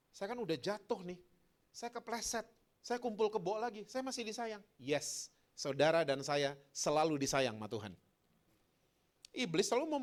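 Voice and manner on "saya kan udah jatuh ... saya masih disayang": higher-pitched mock doubter; lightly voiced self-doubt, pitched up; doubting believer. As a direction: put on a small high doubting voice.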